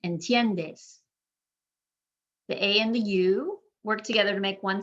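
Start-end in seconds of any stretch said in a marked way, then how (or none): 0.1-1.0 "entiendes" stressed on TIEN; I and E as one glide in "entiendes", TIEN stressed; second-to-last syllable stressed. Shown as a demonstration. Teacher showing the rule, "entiendes" stressed on TIEN. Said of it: "emphasizing that second to last syllable".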